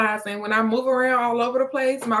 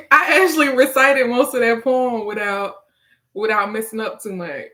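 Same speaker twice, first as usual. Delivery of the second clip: laughing relief; 2 semitones higher, 6 dB louder than usual. Real, not acted. Poet got through most of the poem, laughing relief. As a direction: laugh as you break out of the recital.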